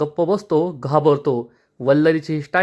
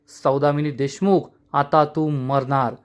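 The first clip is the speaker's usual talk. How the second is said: menacing threat; 3 semitones lower than usual. Retold or imitated. Arnav vows revenge on Saudamini.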